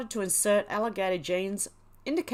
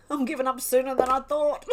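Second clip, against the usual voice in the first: laughing; 5 semitones higher than usual. Real, not acted. Laughing at own fumble.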